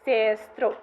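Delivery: "sestro" with a long, prominent first syllable; Autuki dialect pronunciation. Shown as a demonstration. Linguist reproducing a Belarusian dialect for the audience, "sestro" with prominent pretonic syllable. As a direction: draw out the first vowel of "sestro" before the stressed ending. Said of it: "I can try reproducing how it sounds".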